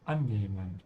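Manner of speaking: annehmen with an open A, prefix an hit hardest; teacher model annehmen, weight on an; stress on the prefix. Shown as a demonstration. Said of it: "we emphasize the prefix an with an open A".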